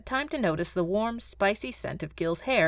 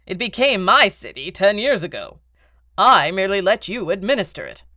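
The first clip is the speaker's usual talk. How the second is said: louder, scornful correction; contemptuous; 6 dB louder than usual. Acted. Baron putting Beetle in his place, contemptuous. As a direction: put him down with cold contempt. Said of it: "The Baron looked contemptuous".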